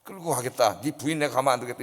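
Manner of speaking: lightly voiced thug intimidating; gangster threat. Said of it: "이런 식으로 겁을 줘요". (조금 낮게 흉내 낸 깡패의 협박)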